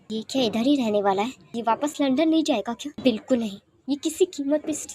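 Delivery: mild indignation, vowing to keep him out; hostile madam. Acted. Madam thinks about Wing staying, indignant.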